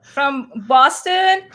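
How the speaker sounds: lightly hammed-up Boston accent; playful Boston accent. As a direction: lean on the Boston vowels for wicked. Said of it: "I can't do my Boston accent".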